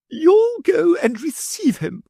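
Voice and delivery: lady commanding. A narrator's reading. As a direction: order her husband off.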